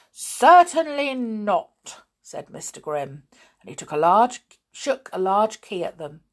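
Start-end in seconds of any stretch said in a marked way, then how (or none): 0.1-2.0 slow, loud, higher refusal; stern refusal. A narrator's reading. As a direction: refuse grandly, drawing it out. Villain refuses to return toys.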